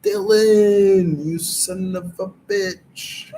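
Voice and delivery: lightly done Austrian action-hero bark, the name called out loud; a hint of Arnold, hamming up the movie line; Arnold Schwarzenegger impression. He does his latest Arnold bit, calling Dylan out loud. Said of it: "latest Arnold Schwarzenegger impression".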